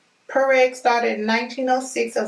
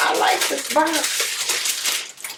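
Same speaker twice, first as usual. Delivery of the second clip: slow breathless whisper of delight; excited whisper; 6 semitones higher, much slower than usual. Real, not acted. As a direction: whisper it like a secret thrill. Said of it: "Okay, I gotta calm down".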